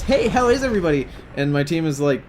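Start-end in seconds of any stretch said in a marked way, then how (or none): 0.0-1.1 put-on high girly greeting; mocked gamer girl. Girl greeting a team that ignores her, high mock girly voice. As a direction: imitate a perky girl, voice pitched way up. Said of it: "So she says".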